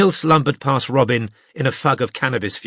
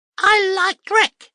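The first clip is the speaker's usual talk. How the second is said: very high, ear-splitting, distorted electronic whine. Narrator reading Bram's line spoken through a device, ear-piercing distorted whine. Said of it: "distorted his voice into an ear-piercing whine".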